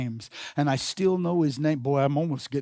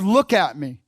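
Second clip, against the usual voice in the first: louder, mildly angry insistence; re-enacted angry comeback with raised volume; mad retort; 6 dB louder than usual. Mad kid repeating himself to his dad, angry. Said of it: "I was mad".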